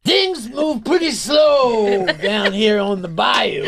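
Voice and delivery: put-on slow, high, drawn-out southern accent; fake southern accent. Mocking an old actor in a southern accent. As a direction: ham up a bad southern accent. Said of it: "southern accent that no one has".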